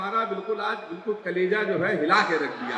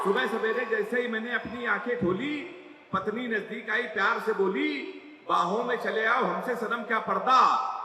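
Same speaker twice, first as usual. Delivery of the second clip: poem recital again. Acted. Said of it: "सुन लो".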